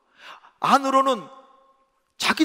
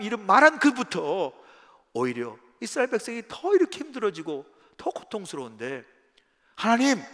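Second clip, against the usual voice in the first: aggrieved protest; 3 semitones higher than usual. Retold or imitated. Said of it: "하나님께 따지듯".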